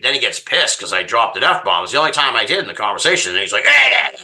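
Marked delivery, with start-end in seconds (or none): 3.6-4.1 mock warning. Angry Canadian husband.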